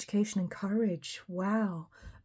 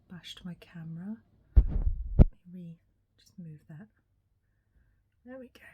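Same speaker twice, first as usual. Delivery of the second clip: whisper; 2 semitones lower, 5 dB louder than usual. Real, not acted. Fixing the camera she bumped.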